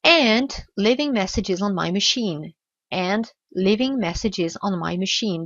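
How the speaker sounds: slow "and leaving messages on my machine"; slow model reading. Shown as a demonstration. Teacher reads the line out for learners. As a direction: read it calmly and slowly. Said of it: "Who keeps calling me".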